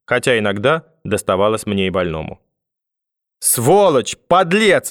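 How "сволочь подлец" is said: high-pitched, outraged exclamation; angry grandmother's cry. A narrator's reading. Grandmother back home scolding her sick grandson, angry cry. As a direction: cry the insults out, pitch jumping up. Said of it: "закричала бабушка".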